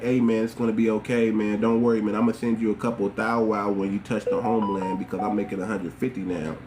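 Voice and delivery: low, easygoing reassurance; calm, friendly coaxing in a low register; nice and friendly. Acted. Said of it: "escort them nice and friendly and be like".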